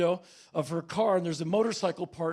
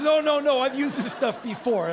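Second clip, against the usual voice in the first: insistent woman; 6 semitones higher, 4 dB louder than usual. Retold or imitated.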